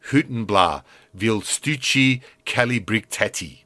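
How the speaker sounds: a bit of a Scottish brogue, reeling off insults word by word; light Scottish accent. Acted. Scotsman insults Jack on the bridge, light Scottish accent. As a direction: slip lightly into Scottish for a long string of insults. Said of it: "will break into a bit of an accent".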